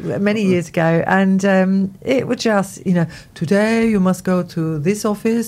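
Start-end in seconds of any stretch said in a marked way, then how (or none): 3.3-5.5 put-on Spanish accent. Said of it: "That's my Spanish accent".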